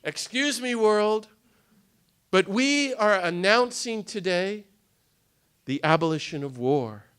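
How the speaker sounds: bold announcement. Shown as a demonstration. Congregation declaring abolition of war to the world, bold. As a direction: announce it to the world, one item at a time. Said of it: "stand up in Montreal and say".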